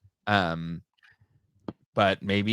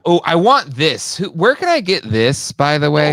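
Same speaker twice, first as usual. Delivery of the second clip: loud, higher-pitched burst of wanting; real excitement; 6 semitones higher, 9 dB louder than usual. Real, not acted. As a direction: gasp and blurt it out like you must have it. Sudden delight on seeing a toy.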